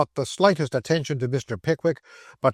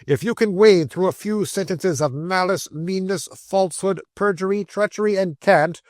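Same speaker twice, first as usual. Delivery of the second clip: scornful tirade; 6 semitones higher than usual. Acted.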